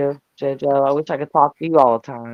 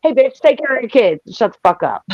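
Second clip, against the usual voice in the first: mock yell at a mother; 7 semitones higher than usual. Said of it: "it's like".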